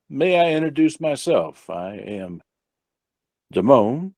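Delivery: courteous, formal introduction; smiling earnestness. Acted. Visitor introducing associates to a gang boss, smiling earnestness. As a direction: lay on polite, measured formality with a smile. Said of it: "All smiles and earnestness".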